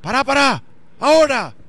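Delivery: excited urging. Retold or imitated. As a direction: stop them and brace for it. Neighbor reacting to delayed stream.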